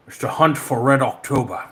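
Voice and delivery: hammy Scottish film-star voice; Sean Connery. Acted. Streamer quoting a film title, Scottish actor impersonation. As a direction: put on a Scottish screen-legend accent. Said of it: "talk like Sean Connery".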